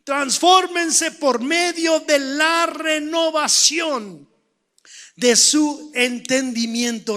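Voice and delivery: slow, weighty "Transfórmense", every phrase stretched; emphatic repetition. Shown as a demonstration. Preacher driving the verse home, slow and forceful from "Transfórmense". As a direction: hammer out "Transfórmense" and what follows, slowly. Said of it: "Esa palabra es importante".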